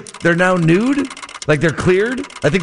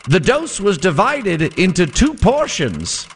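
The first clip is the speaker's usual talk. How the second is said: vintage radio announcer read; old-timey radio voice. Acted. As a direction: read it like a 1920s sportscaster. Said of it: "my old-timey radio voice".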